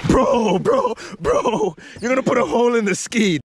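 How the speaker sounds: loud warning shout. Real, not acted. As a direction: yell at him to stop. Friend about to hole the ski.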